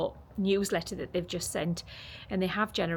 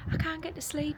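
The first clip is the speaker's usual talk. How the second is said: higher-pitched retold complaint; raised-pitch quoted moan; imitated complaint; 10 semitones higher, 4 dB quieter than usual.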